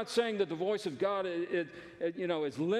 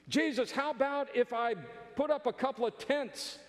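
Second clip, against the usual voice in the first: higher-pitched, casual offer; eager Peter; 6 semitones higher than usual. Acted. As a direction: pitch a keen suggestion to Jesus.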